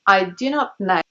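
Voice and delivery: KNOW said "neh-oo"; received-pronunciation O. Shown as a demonstration. Teacher models it for practice, RP glide in KNOW. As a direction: open the vowel of KNOW on an eh. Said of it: "to practice this sound".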